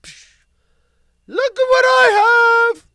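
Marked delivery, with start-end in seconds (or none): 1.3-2.9 high, loud, thrilled reveal; excited reveal. Real, not acted. Host reveals the cookies to listeners, high excited shout. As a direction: show off the find with glee.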